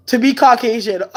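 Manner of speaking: laughing. Real, not acted. Joking about race, laughing.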